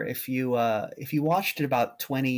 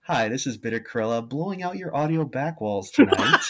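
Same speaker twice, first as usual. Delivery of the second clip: mellifluous radio voice. Pretend. Co-host jokingly introducing themself to listeners, mock radio voice. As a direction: play the smooth radio announcer. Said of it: "with my mellifluous radio voice".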